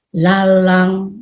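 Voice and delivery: sorrowful, downcast tone on lalang. Showing children the tone for the word 'lalang': sad tone on 'lalang'. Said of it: "Itu lebih sedih".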